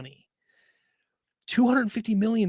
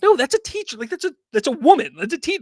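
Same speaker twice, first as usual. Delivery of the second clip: retold disbelief; 9 semitones higher, 5 dB louder, faster than usual. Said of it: "I'm like".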